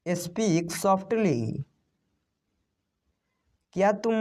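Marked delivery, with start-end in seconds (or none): 0.1-1.6 very slow. Shown as a demonstration. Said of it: "आराम से बोलो".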